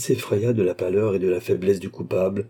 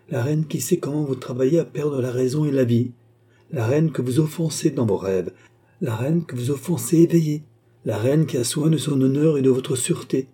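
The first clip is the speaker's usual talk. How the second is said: indignée; 4 semitones higher than usual. Acted. Reine indignée fait des reproches.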